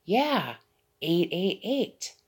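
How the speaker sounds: high, loud, slow frail lady voice; high mock granny, eight eight eight; imitating the old lady. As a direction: slowly draw out each number like a fragile old woman. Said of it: "and she said".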